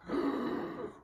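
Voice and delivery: acted shuddering intake of breath; frightened gasp. Shown as a demonstration. Teacher demonstrating trembling with fright, scared gasp. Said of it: "He was trembling with fright".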